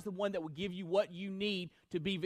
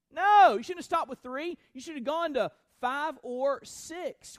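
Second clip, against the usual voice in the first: loud, high burst of prophet's anger; angry rebuke; 7 semitones higher, 8 dB louder than usual. Acted. Prophet rebuking the king for stopping, furious. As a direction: blast the king for stopping short. Elisha flies into a rage.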